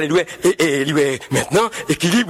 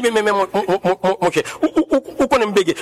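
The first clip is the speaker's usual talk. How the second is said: mock stutter; 2 semitones lower than usual. Pilot stammering at his chief, a light mock stutter. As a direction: repeat each word, tripping on it. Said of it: "chef, là, t'es bégé".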